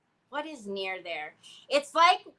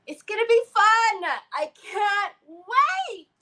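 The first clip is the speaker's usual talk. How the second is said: sarcastic; 10 semitones higher, 8 dB louder than usual. Pretend. Dreading shopping with her son.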